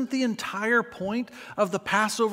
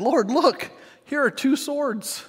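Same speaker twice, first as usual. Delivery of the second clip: 1 eager disciples; 7 semitones higher, slower than usual. Acted. Disciples voiced showing swords.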